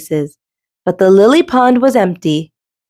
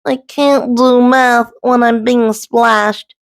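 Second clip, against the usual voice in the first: sputtered; 4 semitones higher, slower than usual. Acted. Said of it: "sputtered Goose".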